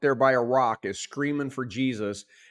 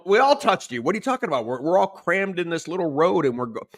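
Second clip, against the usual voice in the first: incredulous crowd; 6 semitones higher, faster than usual. Acted. Crowd answers Jesus, incredulous.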